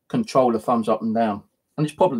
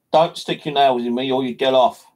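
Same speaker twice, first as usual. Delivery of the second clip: sharp, louder telling-off; telling off the cat; 4 dB louder than usual. Real, not acted. Man scolds his cat for clawing him, sharply. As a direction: snap at the cat to get off.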